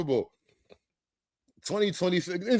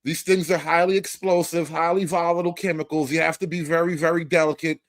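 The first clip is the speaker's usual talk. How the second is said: Trump impression; 3 semitones lower, faster than usual. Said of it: "He was like".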